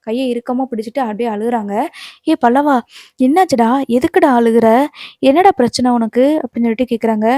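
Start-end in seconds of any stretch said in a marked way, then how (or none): 2.3-6.2 louder, insistent string of questions; concerned questioning. Retold or imitated. Sister-in-law questioning crying Pallavan, concerned and insistent. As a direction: press him with raised voice, concerned.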